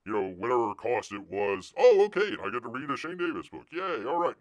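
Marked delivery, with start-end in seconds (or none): 1.8-4.3 high, sing-song fake delight; mock a careless buyer; mock cheer; mocking customer. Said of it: "mocking customer voice".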